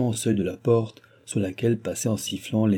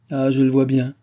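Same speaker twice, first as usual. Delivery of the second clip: louder, higher-pitched realisation; forceful exclamation; 4 semitones higher, 5 dB louder than usual. Acted. King paces his study feeling mocked, vexed exclamation. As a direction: say it out with vexation.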